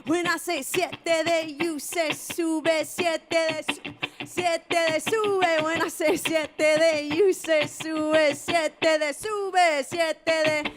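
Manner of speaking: call and response. Shown as a demonstration. Singer leads the audience in a call-and-response chant. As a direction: pump up the crowd. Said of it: "crowd call and response".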